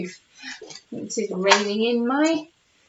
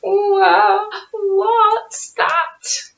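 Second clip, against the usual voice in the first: stammer; 9 semitones higher, 4 dB louder, much slower than usual. Acted. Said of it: "I stammer".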